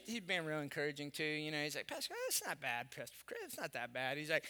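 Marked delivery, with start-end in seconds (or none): 1.9-4.2 soft reassurance. Retold or imitated. Golfer friend consoling him quietly.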